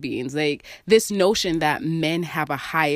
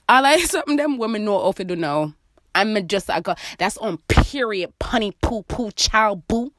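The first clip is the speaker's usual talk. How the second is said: tipsy patois; 4 semitones higher than usual. Real, not acted. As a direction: play it up, end with a flourish. I'm never recording again when I'm drinking wine.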